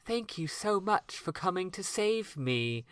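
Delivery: slow, overacted cartoon dub voice; eighties anime dub voice. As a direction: ham it up like an old anime dub. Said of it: "like, eighties American anime dub voice".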